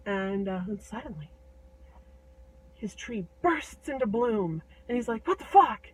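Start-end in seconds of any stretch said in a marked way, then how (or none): 5.3-5.9 loud, high burst of disbelief; acted astonished outburst; startled giant. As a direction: blurt it out in shock. Giant startled by sudden bloom.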